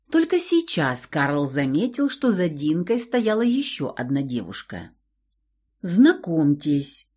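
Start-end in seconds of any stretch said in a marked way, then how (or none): 5.8-7.1 slow, hesitant introduction; unsure. Acted. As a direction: say it uncertainly, drawn out. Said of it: "неуверенно ... сказала гостья".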